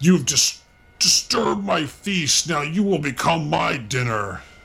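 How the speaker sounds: bellowing, roaring monster voice. Game master voicing a monster disturbed at its feast, in a bellowing monster voice. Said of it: "he bellows like".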